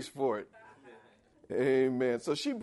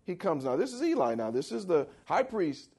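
ordinary talk

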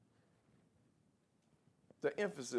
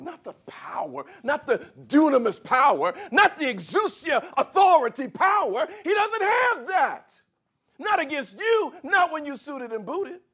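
high, loud, slowed preacher's cry; preaching at full force; 11 dB louder than usual. Acted. Pastor preaching hard to the congregation, shouting. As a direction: build to a ringing climax.

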